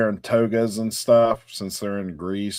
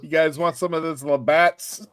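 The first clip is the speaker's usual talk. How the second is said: mock Canadian accent; 3 semitones higher than usual. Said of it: "she's a little Canadian with the A".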